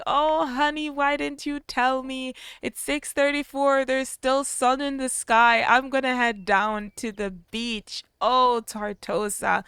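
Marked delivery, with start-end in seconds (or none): 0.0-8.0 lightly voiced excited wife, a bit higher; chirpy, eager wife calling to husband; a hint of a happy wife's voice; voicing Georgia. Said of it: "She's like".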